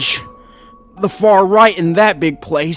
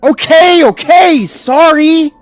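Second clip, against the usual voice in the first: much higher, louder hurried apology; panicky, fend off the scolding; flustered apology; 9 dB louder, slower than usual. Acted.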